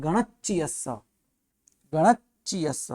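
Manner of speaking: गणच्चियस with a held double ch. Shown as a demonstration. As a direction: stress the doubled च्च in गणच्चियस. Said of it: "गणचियस नहीं".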